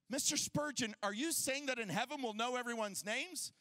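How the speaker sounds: lightly voiced lady with a question; a hint of an inquiring lady, ending on a rise. Lady asks Spurgeon about names in heaven, lightly voiced questioning.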